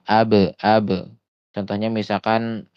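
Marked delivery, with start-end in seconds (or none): 0.1-0.9 "Ab" with a bouncing released b; qalqalah demo. Shown as a demonstration. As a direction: let the b echo in "Ab". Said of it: "qalqalah yang tidak dibaca".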